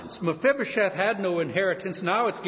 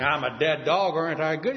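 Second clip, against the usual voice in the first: mock boast. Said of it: "You don't go around saying".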